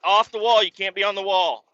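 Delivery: high, insistent warning; bossy teen enforcing the rules; mock lifeguard order. Lifeguards insisting again, mock order. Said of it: "They're like".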